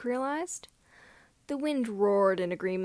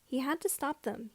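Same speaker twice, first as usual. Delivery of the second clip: ordinary delivery, nothing marked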